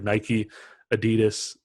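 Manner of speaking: Adidas with stress on a long DEE; uh-DEE-dus, the North American way; North American pronunciation. Shown as a demonstration. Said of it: "for, like, us, it's, like".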